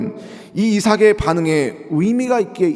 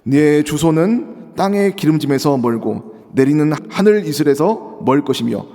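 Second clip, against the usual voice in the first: scripture reading; 3 dB louder than usual. Acted. Reads scripture aloud.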